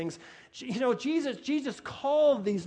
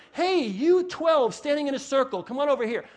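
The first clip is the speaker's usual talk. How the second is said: calling out; 3 semitones higher, 3 dB louder than usual. Acted. Acts out calling men over.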